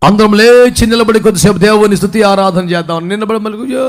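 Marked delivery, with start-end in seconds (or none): 3.6-3.8 imitated long prayer wail; mock wail. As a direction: wail like an over-weepy worshipper. Mimics congregation's wail at prayer.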